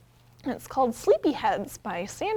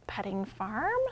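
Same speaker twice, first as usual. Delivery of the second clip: usual speaking voice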